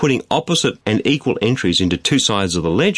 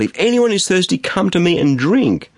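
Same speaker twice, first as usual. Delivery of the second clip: higher, emphatic call, slowing at the end; raised proclamation; 7 semitones higher than usual. Acted. Preacher voicing Jesus calling to the thirsty, raised proclamation. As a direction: lift the pitch and draw out the invitation. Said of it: "said in a loud voice".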